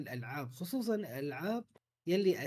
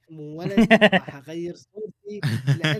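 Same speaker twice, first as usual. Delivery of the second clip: louder reading; 11 dB louder than usual. Acted. Listener reads message.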